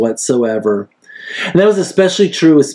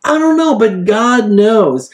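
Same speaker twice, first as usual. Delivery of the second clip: inner thought; 9 semitones higher than usual. Retold or imitated. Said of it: "thinking to himself".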